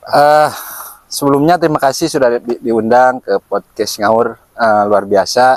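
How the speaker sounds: talking around a cigarette; cigarette in mouth. Real, not acted. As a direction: speak with a cigarette between the lips. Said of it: "Sambil ngerokok aja ya".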